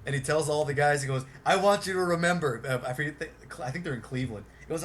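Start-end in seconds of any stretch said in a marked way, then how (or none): 1.4-2.6 higher and louder, barking orders to fans; bossy Billy voice. Retold or imitated. Billy ordering fans onto the bus, loud high bossy voice.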